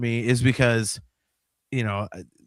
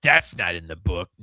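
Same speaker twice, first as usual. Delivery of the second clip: indignant fan; 8 semitones lower than usual. Retold or imitated. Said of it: "I'm like".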